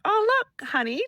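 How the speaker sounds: put-on light up showing husband the sleepy boy; mother excitedly tells husband about son's nap, bright and high; excited call to husband.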